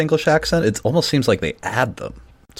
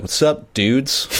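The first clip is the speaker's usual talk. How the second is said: hyped-up greeting; 7 semitones higher, much slower than usual. Retold or imitated. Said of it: "I would not walk up to that table and be like".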